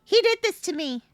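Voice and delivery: ordinary talk, nothing marked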